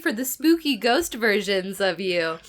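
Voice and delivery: talking through a blocked nose; congested, stuffed-up voice. Real, not acted. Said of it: "and that voice, listeners, was her".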